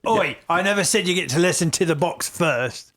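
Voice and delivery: lightly voiced irritated crime partner; Rex, irritated. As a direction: play a lightly put-on, objecting partner.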